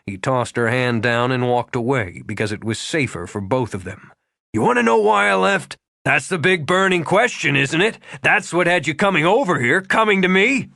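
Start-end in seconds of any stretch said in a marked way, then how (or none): 4.5-10.7 furious confrontation. A narrator's reading.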